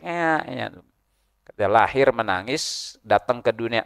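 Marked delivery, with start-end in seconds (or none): 0.1-0.7 small mock newborn wail; imitated baby cry. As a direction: mimic a crying baby, softly and high. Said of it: "Ada yang nangis".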